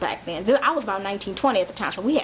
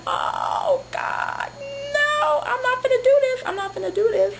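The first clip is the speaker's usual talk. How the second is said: panicked refusal. Retold or imitated. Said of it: "I'm like".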